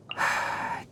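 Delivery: soft exasperated exhale; weary sigh. Acted. Forest watcher reacting to disappointing food, weary sigh. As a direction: let out a quiet sigh.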